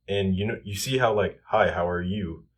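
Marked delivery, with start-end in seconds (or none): 1.5-2.4 YOU lifted upward like a question; rising tone. Shown as a demonstration. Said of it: "goes upwards in tonality".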